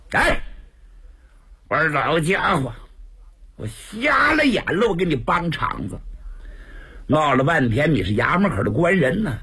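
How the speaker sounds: angry cursing, rising to a high spat shout; cursing out the guard. Acted. The caged prisoner curses his escort as a court lackey, sharp angry shouts. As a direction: spit the insults at the guard. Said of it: "在车里头骂开了".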